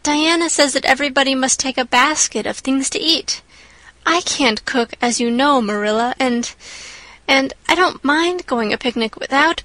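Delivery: put-on anxious then grateful girl; young girl. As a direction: go from fretting to gushing thanks. Anne worries then thanks Marilla.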